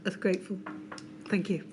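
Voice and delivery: raspy, fading voice; losing voice. Real, not acted. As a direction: voice giving out, strained. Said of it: "I'm losing my voice".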